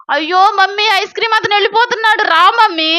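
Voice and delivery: a hint of an anxious little boy; pleading child. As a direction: urge mum to come, lightly childlike. Child urgently calls busy mother.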